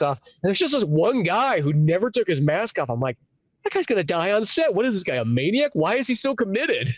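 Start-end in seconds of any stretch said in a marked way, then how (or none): 3.6-6.9 baffled disbelief. Retold or imitated. Acting out his baffled alarm.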